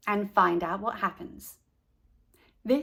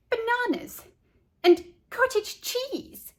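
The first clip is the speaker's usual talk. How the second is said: disgusted disbelief; 13 semitones higher than usual. A narrator's reading. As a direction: drag it out in pure disbelief. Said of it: "sticking out her tongue".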